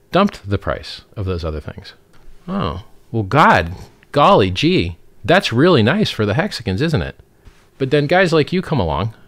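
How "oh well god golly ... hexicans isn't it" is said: put-on wholesome 1950s kid. Sarcastic mock of hexicans.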